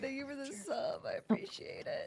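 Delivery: voice after crying. Streamer thanks a viewer for a subscription after crying: tearful voice. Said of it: "I've been crying".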